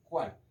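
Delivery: "cuál" said alone with emphasis, tone falling; emphatic question word. Shown as a demonstration. Teacher repeating the accented question word for the class, stressed "cuál". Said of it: "para hacer énfasis".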